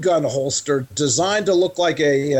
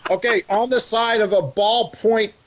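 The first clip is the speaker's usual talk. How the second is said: laughing while reading. Real, not acted. Reading silly warning, laughing.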